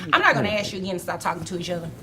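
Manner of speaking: fast, stern warning; firm, clipped rebuke; calm turning angry. Real, not acted. Judge warns the bickering parties.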